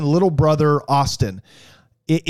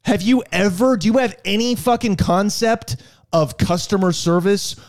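indignant rant; 4 semitones higher than usual. Retold or imitated. Ranting at the rude waitress.

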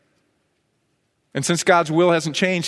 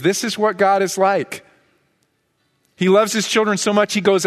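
higher-pitched, insistent sermon delivery; emphatic preaching; 5 semitones higher than usual. Real, not acted. Preacher telling how the father seeks both sons, emphatic. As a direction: preach it with rising urgency.

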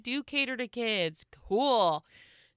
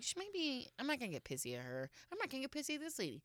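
soft and fast; muttering to herself; 3 semitones higher, 12 dB quieter, faster than usual. Retold or imitated. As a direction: rush it under your breath to calm yourself. Talking herself into staying calm.

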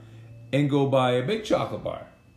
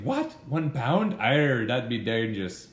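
mock British accent with a pirate arr; slow mixed-bag British accent, pirate-ish; 2 semitones lower, slower than usual. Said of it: "What do you think of that accent".

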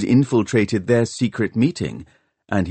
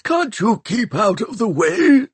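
much higher, shouted rebuke; angry snap; 3 dB louder than usual. A narrator's reading. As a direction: yell at the clumsy boy in the way. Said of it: "they heard him snap".

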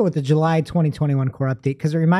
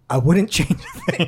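mock Einstein voice. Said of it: "you get your best Albert Einstein voice".

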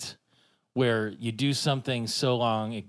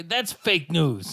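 higher, louder, slow mock proclamation; Bender quote; 7 semitones higher, 5 dB louder, much slower than usual. Podcast host quoting Bender's fake news joke, mock proclamation. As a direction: call it out slowly like a cartoon robot. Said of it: "what did he say there?".

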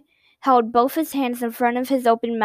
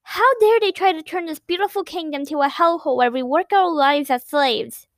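higher, indignant rant; outraged; 5 semitones higher than usual. Acted. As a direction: shake with outrage. Girl rages at invaders.

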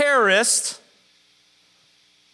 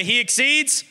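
loud; 5 semitones higher than usual. Shown as a demonstration. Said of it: "We're gonna say it loud".

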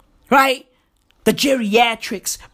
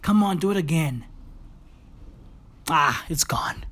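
whisper; 6 semitones lower, 7 dB quieter than usual. Real, not acted. Bird stopped singing.

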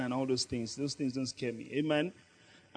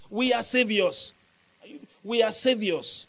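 emphatic declaration; 4 semitones higher, 3 dB louder than usual. Shown as a demonstration. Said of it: "Say it".

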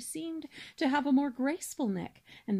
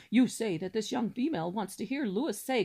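pompous cob swan; 4 dB louder than usual. Acted. Cob speaks to wife.

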